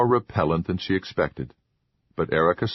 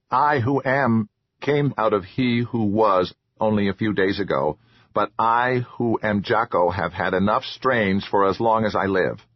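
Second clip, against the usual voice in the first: troll voice, lightly voiced; 3 semitones higher than usual. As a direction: speak as the odd little troll. Troll Jocko speaks.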